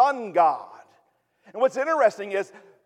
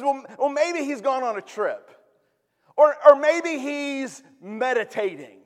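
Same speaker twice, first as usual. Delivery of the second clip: mocking; 5 semitones higher than usual. Elijah mocks the prophets of Baal, mocking. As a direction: taunt them with mock musing. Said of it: "he mocks him and says".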